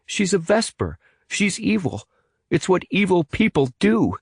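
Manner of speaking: put-on boy sneering about a villain; snapping. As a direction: snap back in contempt. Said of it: "snapped Evan".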